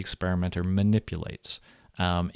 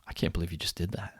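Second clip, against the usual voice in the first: hushed, stunned disbelief; stunned quiet disbelief; 4 semitones lower, 10 dB quieter, faster than usual. Retold or imitated. Experimenter to participant, quietly stunned. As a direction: mutter it as if you can't quite believe it. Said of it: "the experimenter then looks at you and says".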